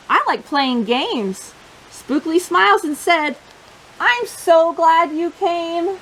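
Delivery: lively, expressive picture-book reading; reading to children. Acted. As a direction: tell the story to a room of little kids.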